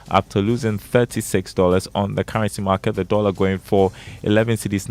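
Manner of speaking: steady market figures read; even, clear list of prices; reading stock prices. Acted. Reads market and currency figures.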